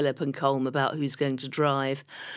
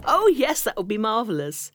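gushing; 6 semitones higher than usual. Retold or imitated. Gushing acceptance.

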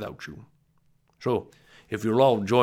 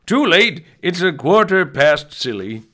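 silly excited; 6 semitones higher, 7 dB louder than usual. Acted. Silly storybook exclamation.

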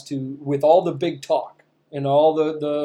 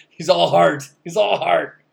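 laughing mock praise; 4 semitones higher, 7 dB louder than usual.

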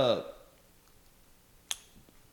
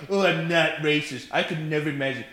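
mock innocent denial. Mocking people who deny racism.

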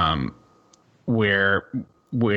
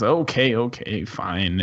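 grudging give-in. Acted. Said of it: "and he says".

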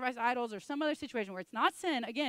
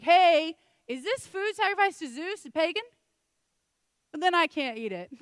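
high, loud, prissy mock question; mock fussy guest; 6 semitones higher, 9 dB louder than usual. Mocking Paul as a fussy dinner guest, loud and high. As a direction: squeal it like a scandalized rule-keeper.

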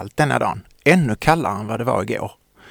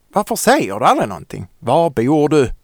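louder, higher shouted question; angry yell; 5 semitones higher, 6 dB louder than usual. Acted. Child yells at silent Victoria, angry. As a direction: yell it in frustration. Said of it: "skriker jag".

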